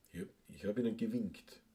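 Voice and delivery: careful standard German pronunciation. Shown as a demonstration. Trying out the proper German form on listeners, standard German. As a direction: say it in textbook standard German, softly. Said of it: "heißt das auf Deutsch".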